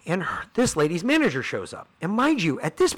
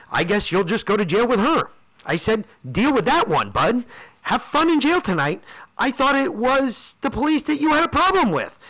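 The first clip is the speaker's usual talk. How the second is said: high-pitched mock send-off; gleeful taunting; 8 semitones higher than usual. Passenger taunting the manager about jail, gloating. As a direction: act out a gloating parting shot, voice climbing.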